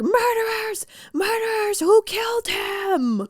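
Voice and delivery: howling fairy beast. Acted. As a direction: wail the accusation like a hammed-up wolf creature. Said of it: "that's exactly what he sounded like".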